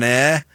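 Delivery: light "eh" at the end; accented end sound. Shown as a demonstration. Host demonstrating a player's home accent, a slight "eh". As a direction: sound out "eh" as a small accented word ending. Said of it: "with his accent, you can hear".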